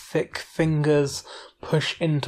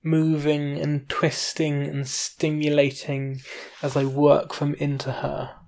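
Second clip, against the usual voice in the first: story narration. A narrator's reading. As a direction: narrate evenly and unhurried.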